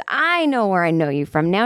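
retold delighted recognition, pitch lifting on the name; excited recognition. Waitress placing where she knows the comedian from, excited recognition.

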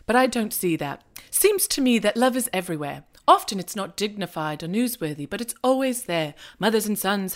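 put-on light, wobbly British accent, reading a speech; mock British accent, half-hearted, reading on; lightly put-on British accent of a prime minister speech; terrible Hugh Grant British accent. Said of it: "Excuse my terrible Hugh Grant slash shitty impersonation".

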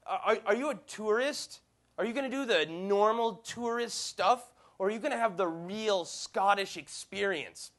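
lightly voiced tipsy local; drunk woman. Drunk woman in a pub quizzing a tourist, slow and slurred-ish. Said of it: "I'm not going to do a Scottish accent".

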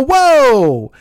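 loud, drawn-out, high "whoa"; retold cry of shock; startled whoa. Driver reacting to a punch through the window, startled.

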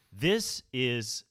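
slow, savoring food-judge voice; mock TV judge. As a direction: lean in like a TV judge. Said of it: "they look down at the plate and they go".

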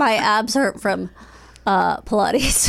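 breathless and slow after laughing; catching breath after a laughing fit; after laughing hard. Real, not acted. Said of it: "Every time I laugh".

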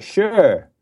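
exaggerated American accent; mock American accent. Shown as a demonstration. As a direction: hit the R like an American. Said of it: "impersonation of an American accent".

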